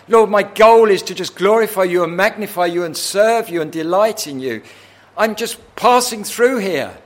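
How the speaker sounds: building from firm to high, loud proclamation; fervent preaching. Acted. Believer telling God he lives only for glory, fervour building to a shout. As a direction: drive the prayer up to a shouted climax.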